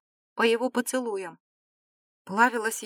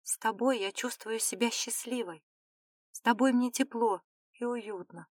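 softly spoken admission; soft confession; 5 dB quieter than usual. A narrator's reading. Dinara confesses she feels happy with him, softly. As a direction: confess it gently, keeping it quiet. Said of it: "призналась Динара".

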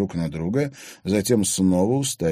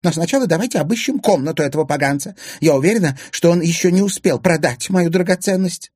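loud, high, urgent indignation; outraged; 11 semitones higher, 6 dB louder than usual. A narrator's reading. Anfisa demanding the room be searched, outraged. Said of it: "возмутилась Анфиса".

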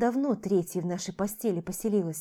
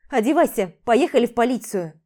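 louder, firm order; insist, no arguing; resolute command; 2 semitones higher, 7 dB louder than usual. Acted. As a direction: friend decisively ordering her to the police. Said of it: "решительно сказала".

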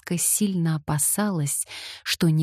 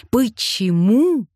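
Почему higher and louder, slow, falling; a second, bigger take of Почему; varied reading; 6 semitones higher, 5 dB louder, slower than usual. A narrator's reading. He tries the word Почему a different way, higher and slow. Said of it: "произносил он по-разному".

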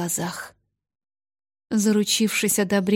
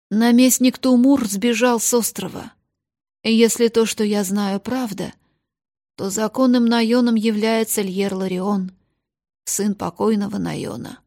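stammering; 5 dB louder than usual. Acted. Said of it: "Управляющий запинался через каждое слово".

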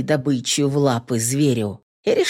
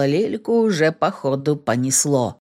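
ordinary delivery, nothing marked

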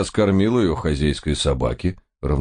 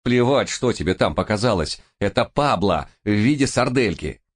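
impatient outburst; 6 semitones higher than usual. A narrator's reading. Narrator loses patience with Bogle.

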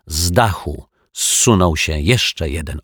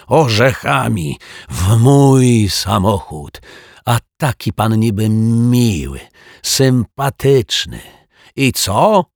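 high, louder furious rant; fuming rant; 5 semitones higher, 6 dB louder, slower than usual. Acted. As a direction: rage on about the car. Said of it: "pieklił się pan Mietek".

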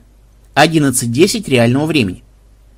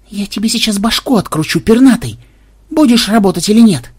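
higher, louder threat at the parrot; threatening shout; 6 semitones higher, 4 dB louder than usual. A narrator's reading. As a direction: bark the threat at the bird. Угрожает попугаю. (угрожает попугаю, громче и выше)

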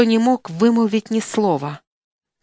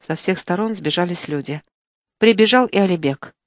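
plain reading voice

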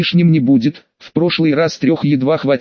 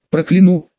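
a mild threat, slightly raised; threatening; 3 semitones higher than usual. Acted. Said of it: "с угрозой произнёс дух".

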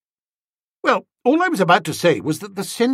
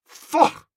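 Faugh said again, higher and with more force; repeated faugh; 12 semitones higher, 3 dB louder than usual. Acted. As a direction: repeat the Faugh clearly so he can't miss it. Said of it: "I said".

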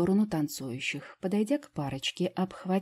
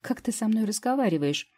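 insinuating; 6 semitones higher than usual. A narrator's reading. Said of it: "так же вкрадчиво поинтересовалась она".

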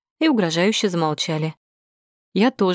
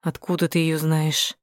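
hissing voice; 2 semitones lower than usual. A narrator's reading. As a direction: hiss the question through the teeth. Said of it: "спросил шипящим голосом".

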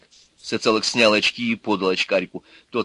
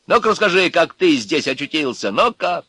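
confronting thug; 6 semitones higher, 4 dB louder than usual. A narrator's reading. Electrician confronting Urka.

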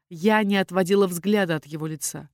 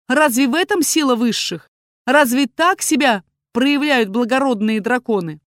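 indignant; 4 semitones higher, 7 dB louder than usual. A narrator's reading. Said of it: "я горела негодованием".

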